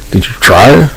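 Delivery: high, rising mock question. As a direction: toss it up high and incredulous. Repeated mocking question.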